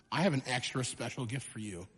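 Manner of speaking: a quiet, low voiced dad on the phone; dad's hushed promise. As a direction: lean in and hush it, teasing the surprise. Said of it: "he calls us and he goes".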